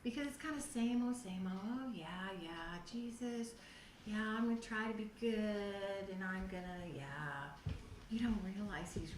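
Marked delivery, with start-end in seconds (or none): 1.6-7.5 mock bored churchgoer.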